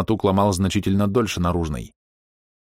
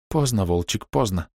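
sighing; 2 semitones higher than usual. Acted. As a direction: let it go on a sigh. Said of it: "вздохнула Мина".

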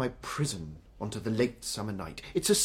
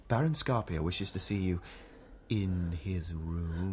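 lower, slowing, insinuating on in his room; suggestive wrong intonation; 5 semitones lower, 6 dB quieter, slower than usual. Shown as a demonstration. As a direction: drag out in his room with innuendo. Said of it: "Imagine if I were to say".

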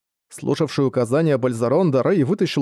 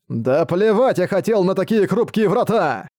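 медленно, угрожающе, нарастая; чудовище обещает раздавить; злобный монстр; 6 semitones higher than usual. Acted. Монстр ломает врата. (угрожающий голос монстра)

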